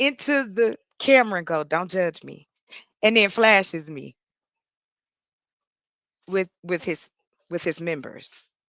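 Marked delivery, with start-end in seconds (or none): 1.6-2.5 soft, hushed, close and private half-whisper. Retelling how a man on a video call ended: imitating a man half-whispering. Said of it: "he whispers in".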